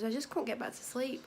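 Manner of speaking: ordinary talk, nothing marked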